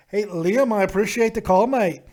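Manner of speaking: loud, hammed-up English accent; bad English accent. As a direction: put on a poor English accent. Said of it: "that was a bad accent".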